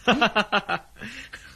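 high rising laugh of disbelief; mocking laugh; scoffing laugh. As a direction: laugh off the idea. Scoffs at the ink plan.

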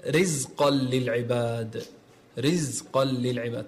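رزقا with a thin, light r before i. Shown as a demonstration. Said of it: "ترقيق الراء".

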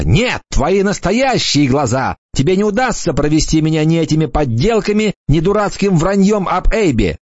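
put-on girl screams at the stranger, pitch climbing; angry shout. A narrator's reading. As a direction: yell it at him with a stamp of rage. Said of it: "топнула ногой и закричала".

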